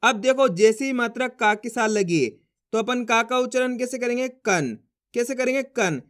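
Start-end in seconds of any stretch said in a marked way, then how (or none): 4.3-4.8 कन ending in a half न sound; half-n nasal. Shown as a demonstration. Teacher answers how का reads, कन with half-n. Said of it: "आधा ना के रूप में इसका उच्चारण निकालेंगे". 5.6-6.0 कन closed on a half न; one short syllable कन, nasal n at the end. Shown as a demonstration. Teacher repeats the reading for learners, कन with half-n. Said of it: "आधा ना के रूप में इसका उच्चारण निकालेंगे".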